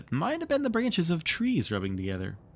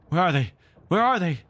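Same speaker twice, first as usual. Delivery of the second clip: echoing, louder and higher each time; savage cry; 8 semitones higher, 7 dB louder than usual. A narrator's reading. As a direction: call out savagely like an echo. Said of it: "echoes seemed to cry savagely".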